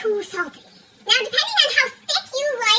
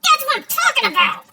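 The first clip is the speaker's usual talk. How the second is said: excited; 3 semitones higher, 4 dB louder than usual. Real, not acted. Excited cheer.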